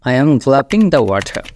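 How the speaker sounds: very slow, careful model sentence; slow demo sentence. Shown as a demonstration. Teacher modelling an example sentence, very slowly. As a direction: say it slowly so learners can follow. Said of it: "what I am doing now".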